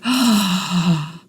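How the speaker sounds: sharp acted intake of breath; startled gasp. Crew member retelling a hand going through a ghost Tribble, startled gasp. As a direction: gasp as if caught by surprise. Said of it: "and I'm like".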